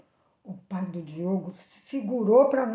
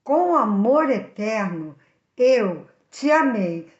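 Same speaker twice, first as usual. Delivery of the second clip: slow, deliberate and a little louder, like reciting a sacred verse; solemn scripture reading; 6 dB louder, slower than usual. Acted. Preacher reciting Jeremiah to the listeners, slow and solemn. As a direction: read each word slowly, with reverence. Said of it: "diz assim".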